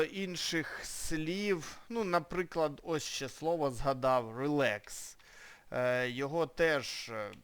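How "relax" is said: relax with the stress on LAX; stress on second syllable. Shown as a demonstration. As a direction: say relax leaning on the last syllable. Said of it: "слово читається relax".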